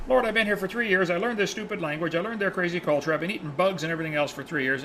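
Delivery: mild mock venting in a run-on list; retold exasperation. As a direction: complain to God, at wits' end. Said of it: "pulling his hair out".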